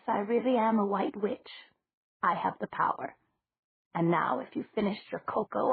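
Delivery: a hint of a kindly old witch; elderly landlady. Old landlady voiced in dialogue.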